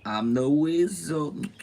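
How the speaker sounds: wizard voice. Retold or imitated. Voldemort character's retort.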